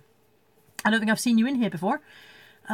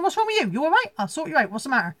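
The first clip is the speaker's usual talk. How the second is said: high, concerned doggy voice, much higher; voicing the dog; 5 semitones higher than usual. Dog nosing in at owner sniffling on bed, high concerned voice. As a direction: fuss over her like a worried pet dog. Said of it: "He's got his snout in there going".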